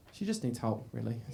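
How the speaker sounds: a touch of sympathetic adult voice; mock pity. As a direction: say it with faux compassion. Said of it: "sympathetic 25-year-old self".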